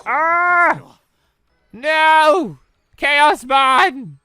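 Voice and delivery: loud, high cries of dismay. Real, not acted. Player watching his Digimon get wiped out, loud dismayed cries. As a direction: yell as each one falls. His team gets annihilated.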